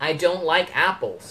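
very slow, word by word; slow demo sentence. Shown as a demonstration. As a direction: give the example slowly for learners. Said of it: "โดยใช้ I ผมพูดแหละ". (ครูพูดประโยคตัวอย่างช้ามาก)

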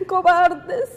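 a tearful crack on the word; crying as she repeats his shout; voice breaking. Real, not acted. Widow quoting her husband's last cry, in tears.

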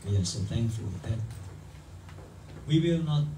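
slow, drawn-out congregational prayer; fervent prayer. Real, not acted. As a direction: plead to the Lord, rising in pitch and force. Leads a prayer in English. (doa yang khusyuk dan bersemangat)

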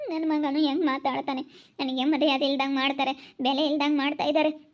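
words breaking into a sob; crying complaint. Acted. Hurt mother complaining of her son, crying. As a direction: sob through the grievance.

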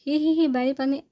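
high, loud forced laugh; mock the joke with a fake ha-ha. A narrator's reading. Noor mocking Hanan's flirting with a loud fake laugh. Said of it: "نور نے مصنوعی قہقہ لگا کر".

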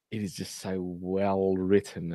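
sarcastic. Real, not acted. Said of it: "saying that in the most sarcastic, sarcastic voice I can".

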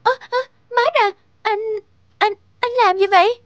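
stammering, choked up with shock; overwhelmed girlfriend stammering in teary disbelief; tearful surprise. Acted. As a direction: catch your breath and stumble over the words. Stunned at surprise proposal.

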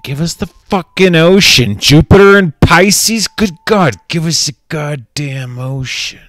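loud, high demanding shout. Real, not acted. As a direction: yell it at the sky.

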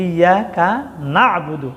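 "না'বুদু" broken off to show the ayn; stressed ayn. Shown as a demonstration. Teacher pointing out the sound, throaty ayn in "না'বুদু". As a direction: say "ইয়াকা", pause, then "না'বুদু" with throaty ayn. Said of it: "এই আইন উচ্চারণ করতে হবে".

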